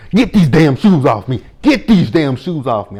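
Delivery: hammed-up diva yelling about her shoes; imitating an angry rant. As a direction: Taseki tearing off her shoes, mock angry. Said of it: "So she is in her dressing room".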